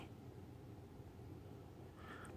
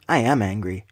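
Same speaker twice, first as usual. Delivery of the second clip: real anger; 4 semitones lower than usual. Real, not acted. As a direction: state I am angry low and firm. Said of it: "you hear anger in my voice".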